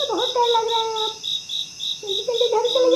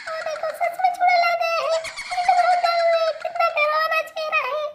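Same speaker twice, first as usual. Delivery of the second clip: higher, panicky cry on seeing the witch; frightened shriek; 3 semitones higher than usual. Acted. Child sees the witch's face.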